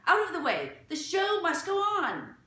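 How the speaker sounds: loud, high imperious command; haughty. A narrator's reading. La Gloria dismissing the children, loud and haughty. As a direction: order them out like a star.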